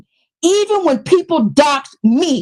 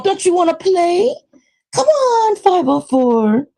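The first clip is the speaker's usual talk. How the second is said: taunting singsong; 5 semitones higher than usual. Pretend.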